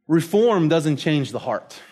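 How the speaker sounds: Reform stressed, the heart slow; sermon refrain, slowed for weight; slow emphatic refrain. Shown as a demonstration. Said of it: "repeated refrain".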